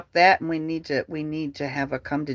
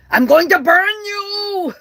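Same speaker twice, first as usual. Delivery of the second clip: mock threat; 9 dB louder than usual. Mock quote of Kim's letter.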